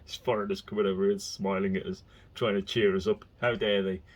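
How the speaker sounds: a hint of a grumpy local grumbling; lightly mock the grumbling locals; grumpy local impression. Speaker mimics grumpy locals resenting friendly foreigners, lightly grumbled.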